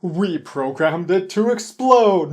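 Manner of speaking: slow, hammy villain declaration. Retold or imitated. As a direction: gloat like a cartoon villain. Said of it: "the classic bad guy thing".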